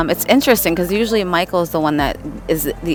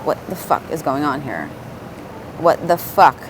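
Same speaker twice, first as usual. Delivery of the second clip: irritated; 2 semitones lower, 6 dB quieter than usual. Real, not acted. Reader grumbling at a page that vanished again, irritated. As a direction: grumble under your breath, fed up. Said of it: "I'm so irritated right now".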